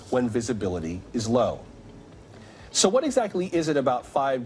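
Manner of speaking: measured TV news anchor read. Acted. Anchor briefing viewers on 5G and air travel, news read.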